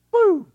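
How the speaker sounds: sudden high loud boo, a playful sound effect; a jokey burst of noise for the rewind; mock rewind sound. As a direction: blurt it like a remote zapping back. Remote skipping back, sound effect.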